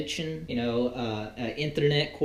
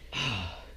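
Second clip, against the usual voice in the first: tired sigh; 6 dB quieter than usual. Real, not acted. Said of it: "God, I'm all wore out".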